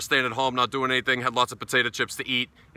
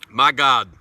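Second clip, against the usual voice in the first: shocked my god; 7 dB louder than usual. Real, not acted. After the first taste.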